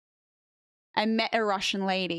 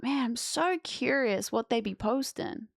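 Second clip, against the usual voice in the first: curious; 3 semitones higher than usual. Retold or imitated. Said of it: "and I'm like".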